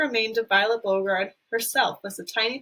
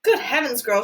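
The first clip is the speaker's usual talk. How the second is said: shrieked; 5 dB louder than usual. Acted. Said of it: "shrieked Missus".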